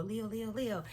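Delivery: soft sing-song cheer chant; cheerleader. Shown as a demonstration. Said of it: "Sound like a cheerleader".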